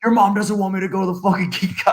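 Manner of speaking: high-pitched indignant grumbling; fired-up dad. Retold or imitated. Dad arguing with his child over tech help, fired up. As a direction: imitate a worked-up father protesting. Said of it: "he was so fired up about it".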